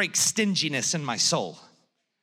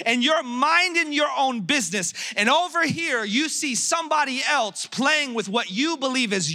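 mock fatherly tirade, pitched up; preacher acting out an exasperated dad; scolding dad; 4 semitones higher than usual. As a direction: build an indignant lecture to a small son. Father acts out scolding his son.

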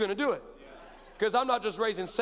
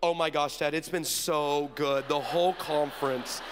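lightly voiced daughter, low and composed; understated on-air poise; suddenly composed daughter; 6 semitones lower than usual. Daughter chatting to viewers after meltdown, lightly acted composure. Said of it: "flips the switch".

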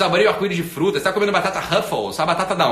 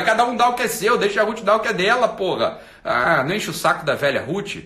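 usual speaking voice

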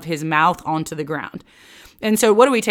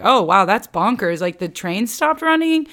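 louder, higher detached astonishment; mock amazement; 4 semitones higher, 4 dB louder than usual. Imitating a detached onlooker to the hurricane news, mock amazed. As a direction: gawk at the news, pitch climbing. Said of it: "I'm no longer just like".

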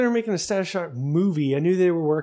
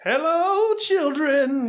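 put-on higher, sing-song greeting to kids; high creepy host voice; 10 semitones higher, 3 dB louder, much slower than usual. Sign-off in a put-on voice.

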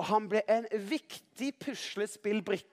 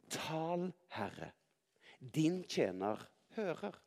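soft, measured, with pauses between phrases; hushed reverence; 4 semitones lower, 8 dB quieter, slower than usual. A narrator's reading. Priest teaching Samuel his answer to God, hushed and measured. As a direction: lower the voice and space the words out.

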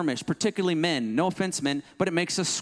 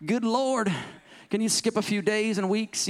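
a light retelling of eager impatience, pitched up; lightly acted impatient fiancé, higher; impatient groom; 5 semitones higher than usual. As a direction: sigh with mock eagerness for the wedding day. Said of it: "I'm like".

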